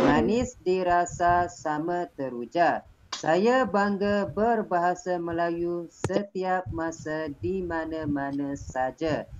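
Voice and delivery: slow, rhythmic recital with a pause after each phrase; pantun recitation. Shown as a demonstration. Teacher showing pupils the right pantun intonation, slow rhythmic recital. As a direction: lay out the pantun line by line, pausing at each break. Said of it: "Itu cara kita membaca pantun".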